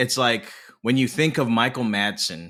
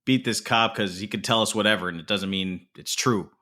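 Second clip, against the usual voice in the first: rising into a higher, mock-exasperated voice by the end; half-acted gangster rant, going higher; quoting a tough guy; 5 semitones higher, faster than usual. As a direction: play the hothead laying down the law, climbing in pitch. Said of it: "And he's like".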